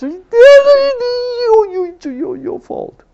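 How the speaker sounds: put-on high, tearful child's blaming wail; mock sobbing, stammering through the blame; crying child. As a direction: act out a little girl sobbing accusations. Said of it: "She was hitting, pounding on my chest".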